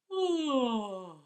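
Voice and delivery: a long yawning hum, pitch sliding down; big yawn. Shown as a demonstration. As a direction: yawn it out with the hand on the throat. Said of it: "do a nice big yawn".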